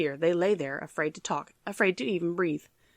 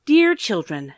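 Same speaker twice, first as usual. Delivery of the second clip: louder, falsely sweet stepmother call; 7 dB louder, slower than usual. Acted. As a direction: coax them like a scheming stepmother. Stepmother coaxing the orphans.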